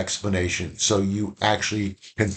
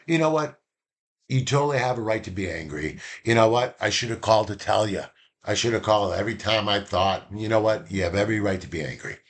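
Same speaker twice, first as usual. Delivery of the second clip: understanding; faster than usual. Shown as a demonstration. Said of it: "Or I can say".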